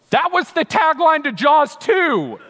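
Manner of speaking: slow, loud, high punchline through a laugh; laughing retort. Retold or imitated. Husband shouting back a Jaws joke at his wife, laughing and loud.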